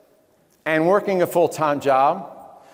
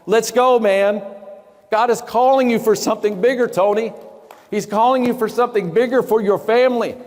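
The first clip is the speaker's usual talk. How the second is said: 1 rallying call; 4 semitones higher than usual. Real, not acted. Rallying an audience member, Tony.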